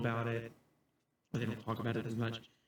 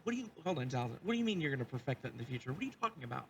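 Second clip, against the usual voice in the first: flustered disbelief; 6 semitones higher, faster than usual. Acted. Game master halts player's alarming admission.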